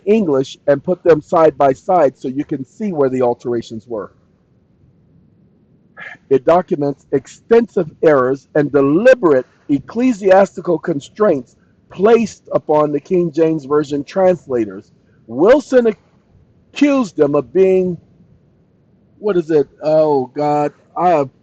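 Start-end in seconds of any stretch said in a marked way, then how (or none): 6.3-18.0 deliberate reading, key words punched; emphatic reading aloud. Real, not acted. Streamer reading a reply about translators, emphatic reading. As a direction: read it out weightily, word by word. Reads the chatbot's answer.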